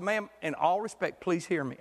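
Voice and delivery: smooth her feathers kindly; sweet and polite. Retold or imitated. Pastor calming an upset churchgoer, sweetly. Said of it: "trying to be sweet like Johnny".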